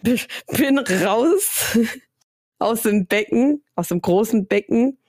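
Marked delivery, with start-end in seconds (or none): 0.0-3.6 langsam, durch Lachen gesprochen; lachend. Real, not acted. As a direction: vor Lachen kaum rausbringen. Lacht beim Erzählen. (lachend und gedehnt erzählt)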